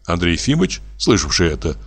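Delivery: ordinary delivery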